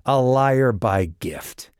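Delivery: high, slow, scornful accusation; spat accusation. A narrator's reading.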